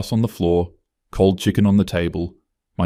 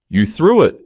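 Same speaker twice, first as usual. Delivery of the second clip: louder and higher, hitting threw; angry accusation; 5 semitones higher, 4 dB louder than usual. Acted. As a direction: throw the blame back at her. Emma accuses her mother.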